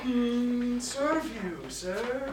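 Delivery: low, very soft, subdued reply; meek answer. Acted. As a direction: shrink back and answer small. Meek answer after being challenged.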